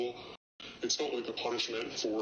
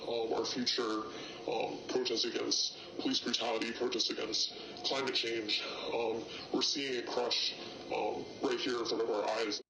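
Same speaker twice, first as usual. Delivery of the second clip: distorted, pitched-down anonymous voice; disguised deep voice. Real, not acted. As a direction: voice disguised for safety. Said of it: "Their voice has been distorted for their safety".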